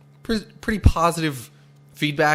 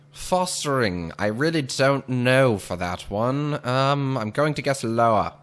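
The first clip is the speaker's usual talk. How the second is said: 1940s radio announcer voice; lightly voiced old-time announcer; old radio serial. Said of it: "This is really what I would just call my radio announcer voice".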